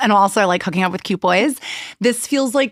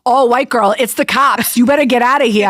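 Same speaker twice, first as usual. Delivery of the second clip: louder street vendor in a put-on accent; best attempt at an accent; 2 semitones higher, 4 dB louder than usual. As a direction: imitate a vendor's warning in an amateur accent. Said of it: "that was my best accent".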